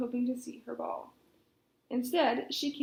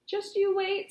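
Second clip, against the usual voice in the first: high defiant princess, a bit louder; 7 semitones higher, 5 dB louder than usual. Acted. Princess defies her father the king, defiant and high. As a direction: throw it back in his face. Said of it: "said Poppy".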